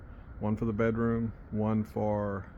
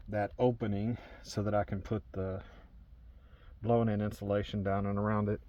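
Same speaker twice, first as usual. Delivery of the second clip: squeezed into a cramped attic; cramped in a tight space; 4 dB quieter than usual. Real, not acted. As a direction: talk while wedged in tight. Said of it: "this is really tight in here".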